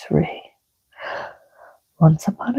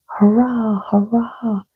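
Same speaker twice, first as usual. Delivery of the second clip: cheering; 4 semitones higher than usual. Acted. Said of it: "shouted all the little".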